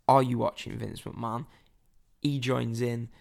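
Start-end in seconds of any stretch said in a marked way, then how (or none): 0.1-1.5 put-on understated retelling of a shouted chant, in own accent; retold shout. Helping the drunk fan's chant along, mildly retold shout. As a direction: report your own chant without really shouting. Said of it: "top of my voice".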